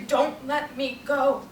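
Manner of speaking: slow, drawn-out plea at speaking volume; restrained acted cry for help; acted dying plea. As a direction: plead slowly as the dying, each word weighted. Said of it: "sometimes they cry out to you".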